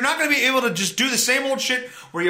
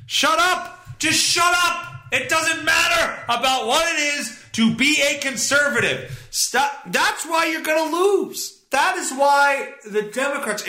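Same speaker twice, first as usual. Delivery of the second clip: angry rant; 6 semitones higher than usual. Real, not acted. Ranting back at the clip.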